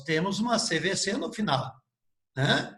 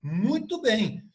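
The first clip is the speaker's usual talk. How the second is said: lively, higher-pitched congratulations; excited praise; 4 semitones higher than usual. Real, not acted. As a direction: cheer the students on. Teacher praises students' correct answer. (elogio empolgado)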